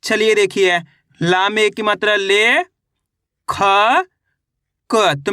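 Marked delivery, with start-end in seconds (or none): 1.2-3.6 ले and ख held long, letter by letter; teacher sounding out ले, then ख. Shown as a demonstration. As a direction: spell it out slowly, stretching ले and ख. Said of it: "एक एक अक्षर का उच्चारण करके".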